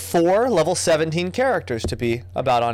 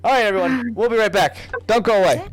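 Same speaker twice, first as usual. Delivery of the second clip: TV host voice; 8 semitones higher, 4 dB louder than usual. Acted. Host sign-off to audience.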